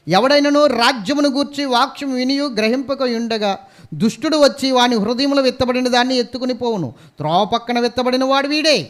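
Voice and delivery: preacher booming the Bible verse to the church; preaching scripture. Acted. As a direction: read it out like a pulpit proclamation. Reads scripture loudly.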